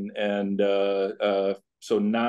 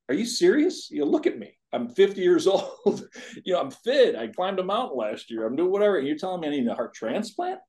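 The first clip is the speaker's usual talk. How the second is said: high-pitched, swooping disbelief; retold incredulous protest; 8 semitones higher than usual. Fit patient answering doctor about a heart transplant, incredulous.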